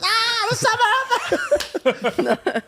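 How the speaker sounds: high, drawn-out shriek imitating a scared sister; startled sister. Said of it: "Jessica coming down the stairs".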